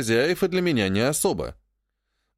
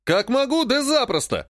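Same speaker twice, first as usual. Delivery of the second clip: barking; 9 semitones higher than usual. A narrator's reading. Brother barking back at his sister, angry. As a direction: throw it back at her, sharp and angry. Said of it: "рявкнул он в ответ".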